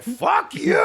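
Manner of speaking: high yelled insult at passers-by; mock yell from a car. Friend mocking annoying line-standers, yelling. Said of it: "drive by and be like".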